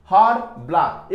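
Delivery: हार्ड and ब्लैक each in a single beat; one-beat syllables. Shown as a demonstration. Teacher showing children single-syllable words, हार्ड and ब्लैक in one beat each. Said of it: "एक ही बार बोल रहे हैं हम".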